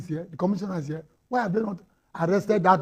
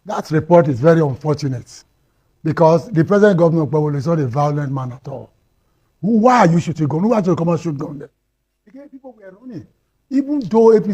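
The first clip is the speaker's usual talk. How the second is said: heated loud protest; 10 dB louder than usual. Real, not acted. Guest rebuts violence report heatedly.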